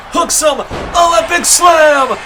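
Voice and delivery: excited shout. Real, not acted. Calls the finishing move.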